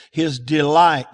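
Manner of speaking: slow, weighty his delight, falling on delight; stressed delight. Shown as a demonstration. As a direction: lean hard and slow on delight. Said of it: "now catch this".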